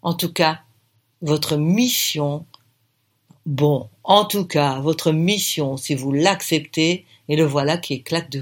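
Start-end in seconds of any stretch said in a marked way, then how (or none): 0.0-7.0 slow, hammed-up cavernous voice; a lightly put-on booming movie-mission voice; voix caverneuse. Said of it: "Il prend soudain une voix caverneuse". (voix caverneuse, lente et un peu forcée)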